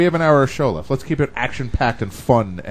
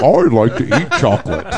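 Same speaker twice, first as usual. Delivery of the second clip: backward voice; 3 dB louder than usual. Pretend. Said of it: "like, your backward voice".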